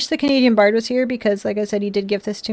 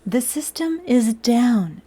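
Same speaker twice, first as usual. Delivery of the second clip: slower, droning robot voice; 3 dB quieter, slower than usual. Pretend. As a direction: drag it out like a machine. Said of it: "Robot voice is over".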